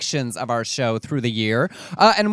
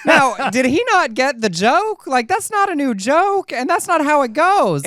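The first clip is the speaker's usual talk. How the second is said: laughing; 12 semitones higher, 5 dB louder than usual. Real, not acted. Laughing disbelief at the quote.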